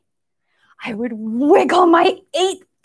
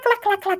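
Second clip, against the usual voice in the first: clacking noise; 6 semitones higher, 4 dB quieter, faster than usual. Shown as a demonstration. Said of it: "they make a clack".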